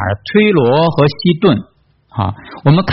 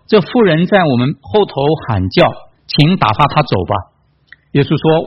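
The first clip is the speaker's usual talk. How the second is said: measured, spaced-out Bible reading; scripture reading; 3 semitones higher than usual. A narrator's reading. Preacher reading the Canaanite woman's story to congregation, measured reading. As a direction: read the passage out deliberately, pausing between phrases.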